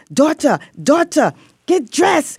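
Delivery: put-on very high, thick, laid-on Puerto Rican accent. Retelling being summoned by a prison mom, imitating Diana Sanchez's Puerto Rican accent. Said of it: "sticks accent, Puerto Rican accent".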